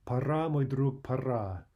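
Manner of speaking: firm, resolute verse line; bold, decisive. Shown as a demonstration. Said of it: "Very bold, decisive phrasing".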